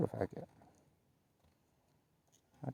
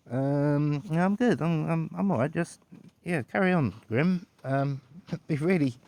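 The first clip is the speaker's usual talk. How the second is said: high, loud polite refusal; flustered guest; 7 semitones higher, 4 dB louder than usual. Pretend. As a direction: wave the butler away, pitched up. Guest politely declines butler's offers.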